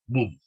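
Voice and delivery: "boom" as Spanish bum, with U; pronounced with U. Shown as a demonstration. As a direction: say "boom" with U, never O. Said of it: "con U, no con O". ("boom" con u española, bum)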